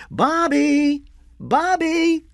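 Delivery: put-on high, drawn-out call for a child. A narrator's reading. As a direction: call from the door for your son. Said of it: "started to call".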